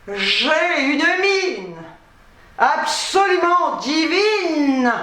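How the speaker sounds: slow, haughty drawl; posh french drawl. Acted. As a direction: drawl it like a diva. Mock glamour about her looks.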